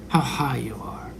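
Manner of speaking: mock whisper. Mocking ascended masters.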